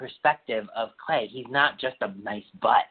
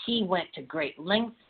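higher, slow dreamy mock gushing; mock gushing fans; 7 semitones higher than usual. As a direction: parody swooning fans. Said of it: "everyone's like".

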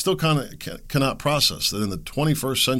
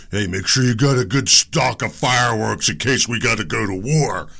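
mock rioter instructions; 5 dB louder than usual. Mocking imagined rioters' instructions.

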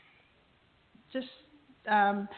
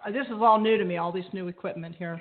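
echo chamber; 2 semitones higher, 4 dB louder than usual. Real, not acted. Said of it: "You sound like you're in an echo chamber there".

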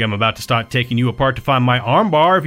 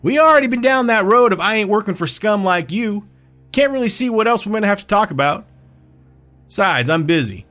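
fuming; 9 semitones higher than usual. Acted. Mead refusing to talk with Palmetto, fuming. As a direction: brush him off, still angry. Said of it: "Mead fumed".

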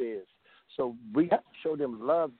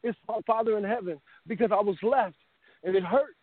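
holding back tears while speaking; emotional; 6 semitones higher than usual. Real, not acted. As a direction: voice raised high and tight with emotion. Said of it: "I'm emotional right now".

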